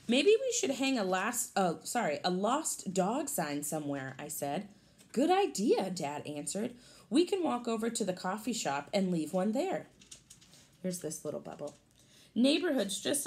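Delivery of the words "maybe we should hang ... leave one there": lively storybook read for a class; picture-book read-aloud voice; reading to children. Acted. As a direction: read it brightly to the kids.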